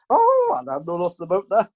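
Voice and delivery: high "Oh" then a quick offhand denial; lightly voiced feigned ignorance; mock innocent brush-off. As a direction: play dumb to the press. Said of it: "sort of style".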